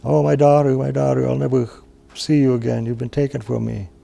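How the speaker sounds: keening for her daughter at daybreak; crying again. Acted. Grieving mother waking alone, high wailing cry. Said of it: "she began to cry again".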